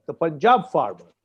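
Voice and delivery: "Punjab" pressed firmly, falling tune on "the Punjab farmer"; stressed phrase. Shown as a demonstration. Panelist insisting to the news anchor, pressing on "Punjab". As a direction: lean hard on "Punjab" in "the Punjab farmer". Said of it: "I stress that word".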